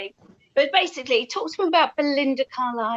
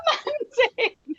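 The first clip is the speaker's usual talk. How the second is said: excited colleagues; 11 semitones higher than usual. Retold or imitated. Colleagues running down the office.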